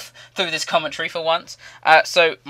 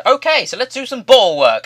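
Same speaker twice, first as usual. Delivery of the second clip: imitated coach, much higher and louder; fitness coach; 10 semitones higher, 6 dB louder than usual. Fitness coach moving exhausted players on, high loud imitation. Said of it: "And then he said".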